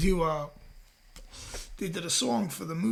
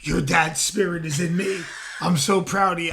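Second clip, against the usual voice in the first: mock medium; 4 dB louder than usual. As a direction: play a fake psychic passing on a message. Pretending to channel a dead father.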